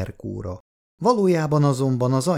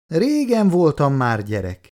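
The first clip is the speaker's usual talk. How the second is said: higher, louder fuming reply; irritated retort; 6 semitones higher, 4 dB louder than usual. A narrator's reading. Grown son fumes at his mother, irritated. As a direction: bristle at being treated like a child. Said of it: "mérgelődött Laci".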